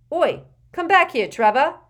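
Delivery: loud shout after a runaway toad; calling out. A narrator's reading. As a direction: yell it across the compartment. Neville calls after his toad.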